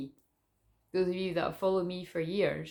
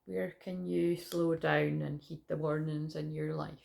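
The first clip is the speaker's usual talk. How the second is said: guided meditation. Acted. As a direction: lead the visualisation gently.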